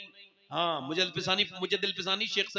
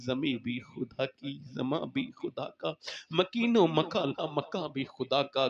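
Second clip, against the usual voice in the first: tearful prayer; 4 semitones lower than usual. Acted. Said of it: "फिर रोने लगी". (धीमी, रोती हुई फ़रियाद)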